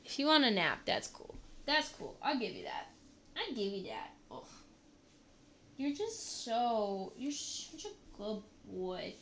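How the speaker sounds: hushed, tender murmur to a pet; soft and tender. Real, not acted. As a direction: soothe a sleepy dog gently. Softly soothing her sleepy dog.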